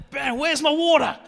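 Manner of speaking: put-on high, loud whiny kid voice; mock thirsty kid calling out; kid asking for water. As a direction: play an eight-year-old pestering the coach. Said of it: "they're always saying".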